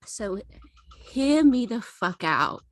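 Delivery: halting, rambling tipsy confession. Acted. High character struggles to tell story.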